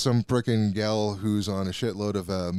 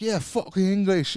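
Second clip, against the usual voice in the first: higher, louder rowdy crowd yell; mock crowd cheer; 10 semitones higher, 4 dB louder than usual. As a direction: chant it like a riled-up movie crowd. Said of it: "everybody around me is like".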